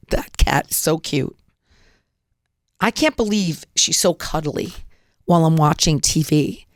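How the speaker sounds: light, delighted cooing over the cat; enjoy it as if it's already yours; happy and relaxed. Shown as a demonstration. Imagining the cat beside her, delighted and relaxed. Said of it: "my whole demeanor has changed".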